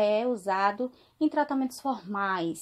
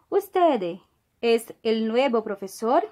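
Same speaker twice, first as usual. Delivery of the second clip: Usted pitched up, asked as a question; question intonation. Shown as a demonstration. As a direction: read "Usted es el nuevo profesor?" as a real question. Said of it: "O ponto de interrogação".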